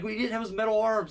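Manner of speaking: ordinary delivery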